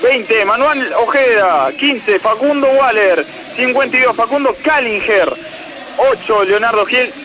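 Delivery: measured stadium lineup read; number then name, each one presented. Acted. Reporter reading Argentinos' eleven to the broadcast, announcer read.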